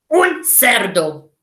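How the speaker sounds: slow, snorty pig delivery; slow piggy voice. Shown as a demonstration. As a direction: grunt it like a pig. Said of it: "snout of a pig".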